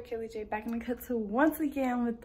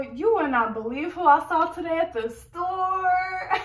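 put-on hyped girl talk; 4 semitones higher than usual. Skit, hyped girlfriend calling friend out.

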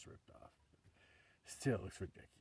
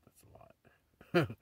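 slow, higher, whispered mock warning; imitating sister and dad; 6 semitones higher, 9 dB louder, much slower than usual. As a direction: stretch it out like a half-mocking warning. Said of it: "my sister and my dad were both like".

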